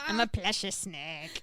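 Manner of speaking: slow words through laughter; laughing. Real, not acted. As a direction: laugh while you say it. Both laughing at the snake joke.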